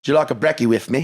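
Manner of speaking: mock Brisbane Australian; playful Aussie impression; Brisbane accent. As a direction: attempt a chatty Australian accent. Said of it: "It's a very Brisbanean accent".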